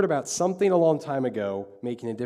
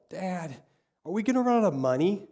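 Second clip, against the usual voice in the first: high-pitched imitation of an upset child; mock bawling; 7 semitones higher than usual. Upset little girl asks dad about money, mock bawling. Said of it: "And she's just bawling, bawling".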